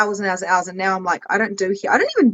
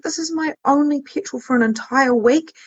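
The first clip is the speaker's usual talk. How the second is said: higher, panicked inner voice; anxious cry about running out of petrol; retold panic; 6 semitones higher than usual. Remembering the petrol panic on the drive, higher and anxious. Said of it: "and I was like".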